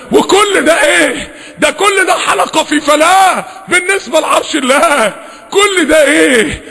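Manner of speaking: exclaiming at God's greatness; impassioned preaching. Real, not acted. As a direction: preach it with awe, drawing out the questions. Rhetorical questions on God's greatness.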